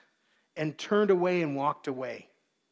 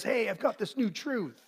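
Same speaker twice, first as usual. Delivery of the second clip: eager false teacher; 4 semitones higher than usual. Acted. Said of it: "someone comes to us and shares".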